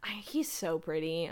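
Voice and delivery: breathy awed whisper. Real, not acted. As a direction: whisper it in awe. Whispering that he is pretty.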